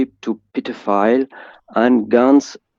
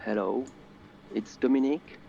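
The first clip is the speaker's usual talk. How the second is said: very soft, faint introduction; too quiet; 15 dB quieter, faster than usual. Real, not acted. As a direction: introduce yourself barely loud enough to catch. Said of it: "Can you speak a bit louder".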